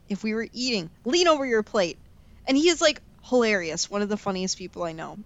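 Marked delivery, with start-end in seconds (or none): 1.1-2.0 spoken dad-style table order, lightly imitated; a mild mealtime telling-off; grandpa scolding. Grandpa correcting kids while they eat, mild scolding. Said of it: "in true dad fashion".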